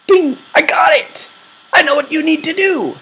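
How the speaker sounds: sudden bright idea, bursting out; idea ding. Retold or imitated. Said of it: "your brain is going to come back with answers".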